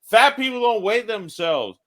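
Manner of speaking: reacting to Bert's weigh-in, mock outrage. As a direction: scoff in playful disbelief. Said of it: "It's like".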